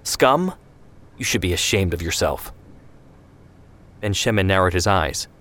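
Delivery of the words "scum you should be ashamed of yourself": appalled. Acted.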